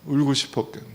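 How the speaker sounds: tender repeat of "울고 싶었겠네"; softly repeated. Shown as a demonstration. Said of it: "너무 좋아요". (조용히 다정하게 "울고 싶었겠네")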